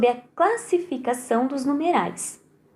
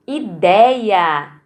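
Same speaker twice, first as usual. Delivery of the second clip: Ideia. with dei louder; stress on DEI; 3 semitones lower, 4 dB louder than usual. Shown as a demonstration. Teacher to pupils, Ideia. with dei stressed. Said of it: "No dei".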